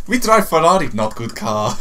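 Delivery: mock Russian accent going Japanese; lightly hammed Russian-Japanese accent. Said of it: "my Russian accent decided to go and merge with a Japanese one".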